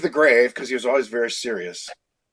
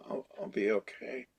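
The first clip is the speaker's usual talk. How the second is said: much softer, faint and worn out; weak sick voice; 4 semitones lower, 15 dB quieter than usual. Retold or imitated. Sick kid brushing off his boss, faint and much softer. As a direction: push the words out with no strength. Feeble sick self told to Phil.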